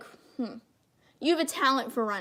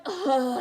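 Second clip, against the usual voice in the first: exasperated groan; acted-out ugh of despair; frustrated ugh; 2 semitones higher, 4 dB louder than usual. Mimes frustration at voice acting.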